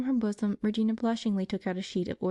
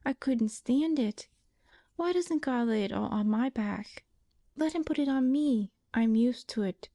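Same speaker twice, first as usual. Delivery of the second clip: put-on higher, tender young invalid, pleading; pleading sister; 4 semitones higher than usual. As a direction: beg her sister not to fall ill.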